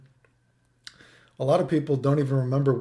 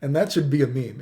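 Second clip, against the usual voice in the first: amused, smiling through the words. Real, not acted. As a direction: grin while you say it. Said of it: "I'm smiling while I say it now".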